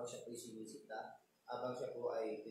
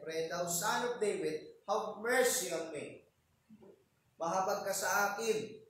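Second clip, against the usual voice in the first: loud plea; 5 semitones higher, 5 dB louder than usual. Retold or imitated. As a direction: raise the voice, beg for mercy. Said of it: "nilakasan niya ng gusto ang boses niya".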